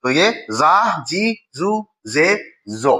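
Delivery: जा, जी, जू, जे, जो said slowly one by one; drilled syllables. Shown as a demonstration. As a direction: call out जा जी जू जे जो as a drill. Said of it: "जो में चला गया".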